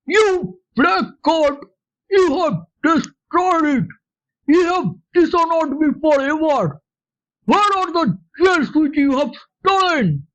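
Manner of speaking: hammed-up fury at a thieving son; mock rage. Father accusing his son of theft, mild mock rage. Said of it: "I shouted beside myself with rage".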